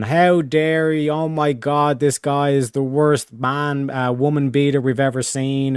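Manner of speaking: drawn-out, put-on shock at a villain; mock white-knight outrage. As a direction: imitate someone grandstanding in outrage. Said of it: "like, white knight and in front of the women".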